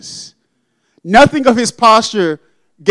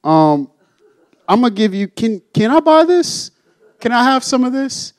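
eager Simon; 3 dB quieter than usual. Retold or imitated. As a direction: play Simon fumbling for cash, pitch jumping up on the ask. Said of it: "Simon decides".

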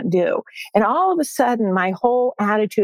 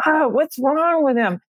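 raised-pitch retold exasperation; higher, lightly huffy imitation of one's own grumbling; mock irritation; 5 semitones higher than usual. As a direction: act out mild annoyance at a husband. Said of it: "I was really irritated with him".

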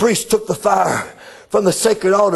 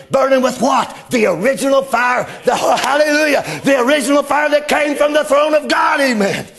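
raised, ringing preacher's call; full-force preaching; 3 semitones higher than usual. Acted.

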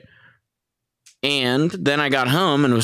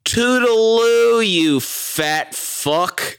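sweet goodbye turned into a jab; sassy mock farewell; 10 semitones higher, much slower than usual. Erica telling off the man, sing-song mock sweetness. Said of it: "one of the most epic lines ever".

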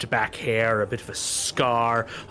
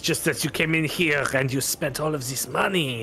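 put-on French accent. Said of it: "mon ami".

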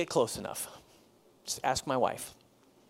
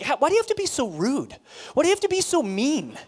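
higher mock wail, a bit louder; imitating upset woman; 9 semitones higher, 4 dB louder than usual. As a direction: play her hurt outburst, pitched up. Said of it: "and she was like".

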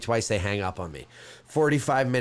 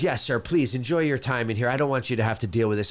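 lightly voiced helpful desk lady, lower; retold reassurance; 6 semitones lower than usual. Man voicing the lounge lady to himself as customer, reassuring. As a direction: reassure a customer, low and quick in the middle.

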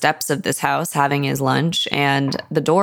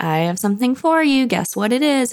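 higher, playful sing-song; teasing daughter voice; 8 semitones higher than usual. Retold or imitated. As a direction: tease him with a surprise, voice lifted up. Meg voiced in retelling.

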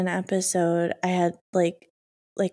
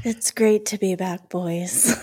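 sultry voice; slower than usual. Real, not acted. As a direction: rasp it out after the flu. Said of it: "the speaker with the sultry voice".

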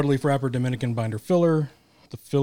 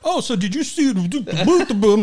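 mock excited chatter; 9 semitones higher, 5 dB louder than usual. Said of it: "Quit talking for a second".

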